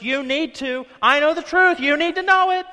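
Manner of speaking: rising to a loud high preachy shout; hammed-up pushy preacher; mock preachy shout. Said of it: "They're like".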